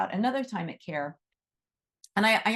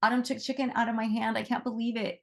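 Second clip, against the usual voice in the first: bright excited gush, pitched up and quick; a volunteer thrilled that the fox ate from her hand, higher and quicker; 4 semitones higher than usual. Retold or imitated. Volunteer telling the owner the fox fed from her hand, excited gush. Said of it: "she was so excited".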